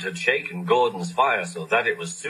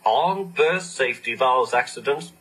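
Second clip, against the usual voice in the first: innocent; 2 semitones higher than usual. Acted. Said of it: "Percy asked innocently".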